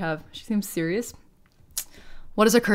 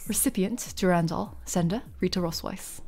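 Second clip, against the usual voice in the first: put-on British accent; 5 dB quieter than usual. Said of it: "just stay in British mode".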